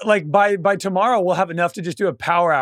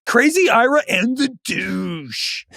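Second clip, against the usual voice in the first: radio DJ voice; 5 semitones higher, slower than usual. Retold or imitated. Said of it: "Just, like, that voice".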